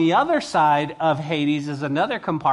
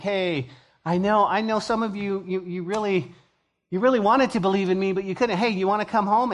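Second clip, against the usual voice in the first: gentle God voice; 5 semitones higher than usual. Pretend. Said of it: "he would be like".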